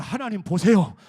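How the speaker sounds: very loud rallying lead. Shown as a demonstration. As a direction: call it out bigger, at full voice. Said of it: "크게 합시다". (더 큰 소리로 힘껏 선창)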